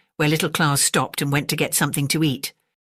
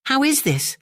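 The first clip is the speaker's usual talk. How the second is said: puzzled; 10 semitones higher than usual. A narrator's reading. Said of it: "thought Great Claus".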